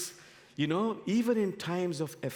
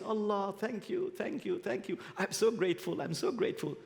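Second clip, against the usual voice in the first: grateful mullah; 6 semitones higher than usual. Acted. Mullah on knees thanking Allah.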